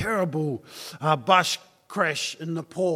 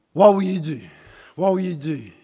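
loud preaching; 5 dB louder, faster than usual. Real, not acted. Preacher's climactic question.

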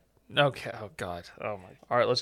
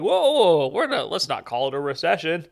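mock panicked officials; 5 semitones higher, 5 dB louder than usual. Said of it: "how they're like".

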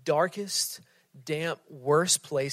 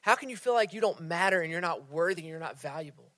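incredulous pleading; 4 semitones higher than usual. Retold or imitated. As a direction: push in, amazed she forgot. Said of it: "We're like".

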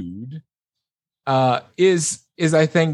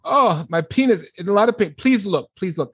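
pleading patient; 6 semitones higher than usual. Retold or imitated. Patient begging, retold.

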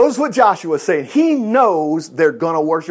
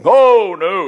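acted cry of refusal; emphatic denial; 5 dB louder than usual. Preacher acts Peter denying the Lord, emphatic and loud.

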